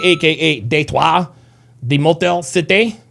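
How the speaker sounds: slow French accent, Detroit as deh-TWAH; mock French, drawn out. Shown as a demonstration. Host voicing a viewer's city to chat in French. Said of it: "with the French accent".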